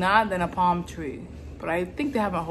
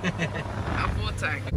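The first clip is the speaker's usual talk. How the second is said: slow savoring repeat; 2 semitones lower, 6 dB quieter, much slower than usual. Shown as a demonstration. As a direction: draw it out with relish. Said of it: "There's nothing better than having a full".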